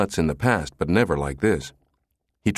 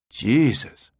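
higher, drawn-out mild oath of amazement; amazed exclamation; 7 semitones higher than usual. A narrator's reading. Brinkerhoff hears of the bypass switch, amazed. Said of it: "Brinkerhoff whistled".

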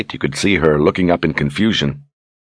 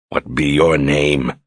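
growled; slower than usual. Acted. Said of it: "he growled".

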